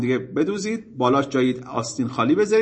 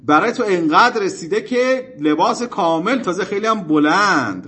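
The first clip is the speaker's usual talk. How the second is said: drawn-out, slightly louder accusing objection; imitated heckler, voice raised a little; retold shouted protest; 4 semitones higher, 4 dB louder than usual. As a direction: throw the accusation at him, mock-indignant. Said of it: "داد زد سرش، فریاد زد که".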